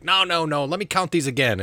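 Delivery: high, loud protest; bickering. Acted. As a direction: cut in, arguing back. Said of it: "people sort of arguing and bickering".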